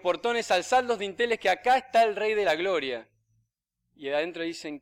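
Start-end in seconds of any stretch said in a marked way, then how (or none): 0.0-3.1 a louder, higher mock shout at the gate; the devil bellows his demand, pushing up in pitch. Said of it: "grita con fuerza el demonio".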